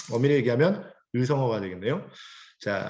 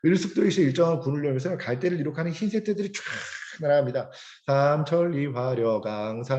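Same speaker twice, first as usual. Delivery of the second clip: ironic poem reading. Shown as a demonstration. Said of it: "황지우 시인이 굉장히 비꼬는 거예요".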